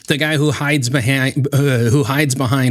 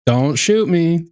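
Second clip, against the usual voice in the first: mock plea; 4 semitones higher, slower than usual. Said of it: "I'm being cool".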